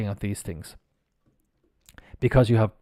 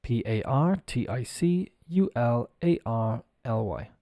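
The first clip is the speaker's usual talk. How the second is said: slow spelling out; 5 dB quieter than usual. Shown as a demonstration. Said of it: "I'll spell it".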